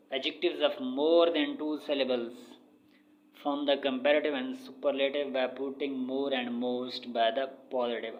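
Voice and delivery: very slow, word by word, like dictating to a class; measured classroom dictation of an English rule. Shown as a demonstration. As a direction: read the rule out slowly for students to copy. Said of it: "reading English rule aloud".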